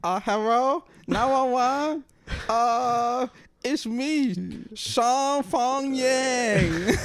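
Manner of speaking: high, loud mock Asian accent on a 911 call. Host parodies the caller phoning 911, loud mock Asian accent. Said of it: "He's like".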